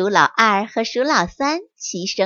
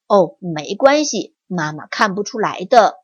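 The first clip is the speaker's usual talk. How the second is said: confident; 5 semitones lower than usual. Acted. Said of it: "很肯定地说".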